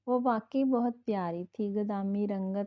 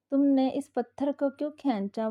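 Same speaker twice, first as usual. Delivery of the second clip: a mock shout, higher and louder; tearful yell; 4 semitones higher, 4 dB louder than usual. Wife frightened by a lizard, yelling at husband. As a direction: yell at him, half crying. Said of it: "वो चिल्लाई थी रोते रोते".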